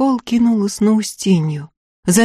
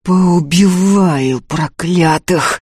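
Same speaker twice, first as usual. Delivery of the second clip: panting; much slower than usual. Acted. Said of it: "тяжело дыша выговорил Ефим".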